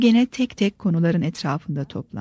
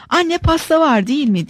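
put-on high child's call, a touch louder; merry little girl piping up without fear; cheerful, fearless shout; 8 semitones higher, 4 dB louder than usual. A narrator's reading. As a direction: call out boldly to mother, pitched well up. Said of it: "diye bağırdı".

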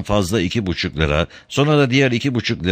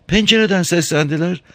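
puzzled wife, pitched up; wife's voice; 12 semitones higher than usual. A narrator's reading. Wife answers husband.

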